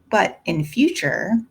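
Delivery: "but in future" slowed, each word weighted; stress on in future. A narrator's reading. Jane warning Grace Poole, leaning on "in future". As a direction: lean hard on "in future". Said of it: "and I laid marked stress on the words".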